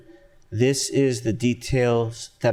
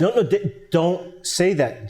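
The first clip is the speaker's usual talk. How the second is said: higher, stumbling then slowed warning; alarmed warning; 4 semitones higher, slower than usual. Acted. Lawyer stopping client's damaging admission, alarmed warning. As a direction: cut in, then slow down to warn.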